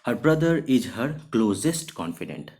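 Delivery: slow, clear dictation for learners; slow example sentence. Shown as a demonstration. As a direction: read the sentence very slowly, word by word. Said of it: "example sentence read for students".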